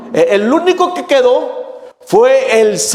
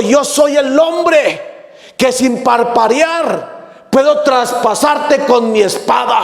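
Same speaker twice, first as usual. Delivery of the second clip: furious warrior; slower than usual. Acted. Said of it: "se pone furioso".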